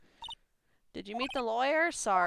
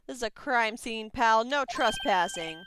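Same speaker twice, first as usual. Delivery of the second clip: lightly voiced Southern detective; folksy detective; 4 semitones higher, 8 dB louder than usual. Detective warning off an intruder at a crime scene, lightly Southern.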